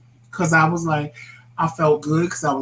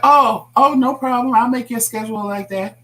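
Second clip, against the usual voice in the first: higher, louder, sugary yes-woman voice; mock eager boss; 7 semitones higher, 4 dB louder than usual. Husband mimics his boss agreeing to his schedule, mock eager. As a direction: play the boss promising too easily. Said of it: "she was like".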